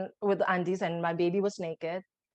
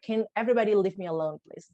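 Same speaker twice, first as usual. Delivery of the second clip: rushed inner plea; faster than usual. Retold or imitated. Wishing everyone gone, unspoken.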